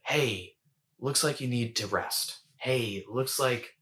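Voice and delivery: kind, unhurried motherly tone; lightly voiced caring mom, slowing at the end; gentle mother's voice. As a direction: coax kindly, leaving little pauses. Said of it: "Do you hear the shift in my tone?".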